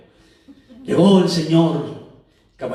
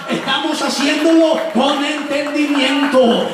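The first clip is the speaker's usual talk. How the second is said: raised, exalted sermon delivery; fervent preaching; 5 semitones higher than usual. Acted. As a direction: proclaim glory to the congregation. (predicación exaltada y fervorosa)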